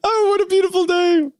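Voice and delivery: high, chirpy little cartoon guy; cartoon Pim impression. Imitating the little purple guy, high and cheery. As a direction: squeal it with cheerful wonder. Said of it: "That's a pretty good comparison".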